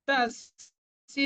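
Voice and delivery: তস্য very slow, with the half s and y; Sanskrit pronunciation. Shown as a demonstration. Teacher modelling তস্য against the Bengali reading. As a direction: draw out তস্য, not the Bengali way. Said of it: "আমরা কিন্তু এটা বাংলার মতো তস্য বলবো না".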